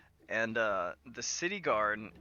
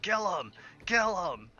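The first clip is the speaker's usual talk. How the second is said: higher-pitched imitation of a jeer; mock crowd yell; 7 semitones higher, 4 dB louder than usual. Game master voices a heckler at the hanging, mock yell. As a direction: mimic some guy yelling from the crowd. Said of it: "you hear very loudly".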